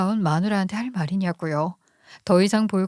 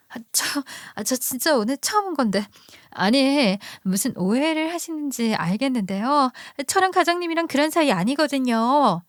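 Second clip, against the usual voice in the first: a lightly higher, sweetly innocent young woman playing dumb; coy mistress; 5 semitones higher than usual. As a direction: act the caught mistress feigning innocence. (시치미 떼는 상간녀 목소리)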